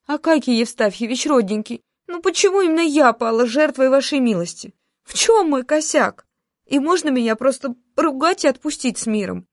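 pleading. A narrator's reading. Employee begs the boss not to give her the kitten, a mock plea. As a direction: beg the boss for mercy, half joking. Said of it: "взмолилась я".

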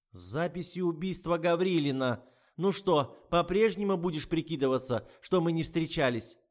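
high, loud mocking voice; taunting old woman. A narrator's reading. Old woman taunts the writer about the murder tape, high and loud. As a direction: jeer at her pretending.

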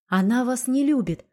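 ordinary delivery, nothing marked

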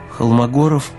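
ordinary talk, nothing marked

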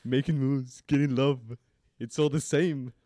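high, loud attempt at Irish; Irish accent. Shown as a demonstration. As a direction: put on an improvised Irish accent. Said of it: "read this in your best Irish accent".

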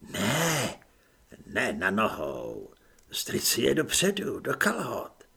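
a hint of a low, secretive stranger; lightly voiced unseen helper, patient; hidden adviser. Stranger behind partition advising Apoléna, lightly low and patient.

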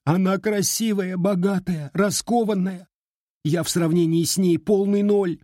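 put-on high, upset girl insisting; a jilted girl, hurt and stubborn; tearful young woman. A narrator's reading. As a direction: heartbroken girl pleading her case. Heartbroken girl voice.

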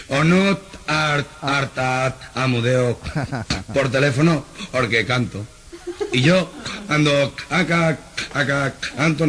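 atascado, lento, se le escapa la risa; tartamudeo con risa. Acted. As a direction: tartamudea riéndote. Tartamudo explica que cantando no. (tartamudo explicando que cantando no tartamudea)

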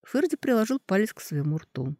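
ordinary delivery

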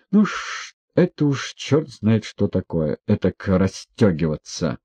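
ordinary delivery

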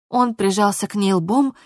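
usual speaking voice

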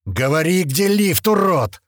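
loud, rising interrogator's demand; angry shout. A narrator's reading. Knifeman slapping the captive's head, shouting angrily. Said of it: "закричал Клёпа".

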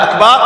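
"أكبر" said as "akbaar" with a long second vowel; lengthened baa. Shown as a demonstration. Teacher quoting the ruling on invalid prayer, "akbaar" lengthened. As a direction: stretch the vowel after the b in "أكبر". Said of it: "أو مد أكبر".

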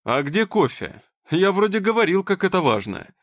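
mock whiny, demanding man; a hint of a snide, pushy boss. A narrator's reading. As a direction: nag about the coffee. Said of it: "противного, едкого, с претензией голоса".

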